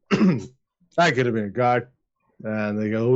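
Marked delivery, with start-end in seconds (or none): 0.1-1.9 put-on slowed, slurred drunk repetition; slow drunken repeat. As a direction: drag it out like a drunk.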